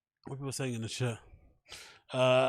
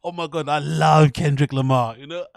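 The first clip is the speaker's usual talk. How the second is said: adoring; 5 dB louder than usual. Retold or imitated. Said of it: "That's his face".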